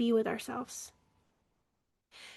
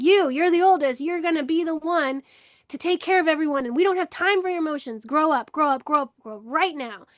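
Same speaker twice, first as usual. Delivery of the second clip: imitating a pressuring mother; retold bossy scolding, mildly acted; stern parental demand; 3 semitones higher than usual. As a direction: lay down the law to the eldest child, voice lifted. Acted mother pressuring her eldest child.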